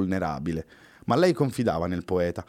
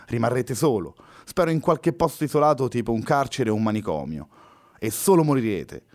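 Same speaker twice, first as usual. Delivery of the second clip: a hint of hatred, higher and a little thin and guttural; touch of hatred; 3 semitones higher than usual. Luna curses Louise to die alone, with a touch of hatred. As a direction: let the contempt creep in, higher. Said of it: "con una punta di odio ... sottile e gutturale".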